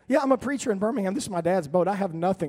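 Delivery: rapid-fire, loud sales talk; fast talking. Retold or imitated. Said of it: "I did my best Lindsay impersonation".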